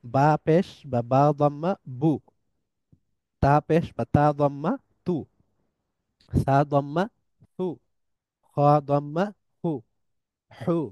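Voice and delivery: letter name, then "damma", then the syllable with a rounded "u"; teacher spelling letters with damma. Shown as a demonstration. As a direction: spell it out like a Quran primer. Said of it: "এটাকে বলা হয় দম্মা".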